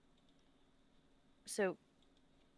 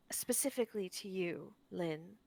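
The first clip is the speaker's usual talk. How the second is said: sincere apology. Acted. Tilda's heartfelt apology in character.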